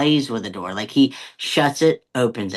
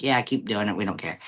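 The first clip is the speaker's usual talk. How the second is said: lightly voiced nonchalant cats, low and quiet; unbothered cats; 3 semitones lower, 4 dB quieter than usual. Speaking for cats who ignore being sprayed, mildly nonchalant. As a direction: shrug it off, dropping lower and softer.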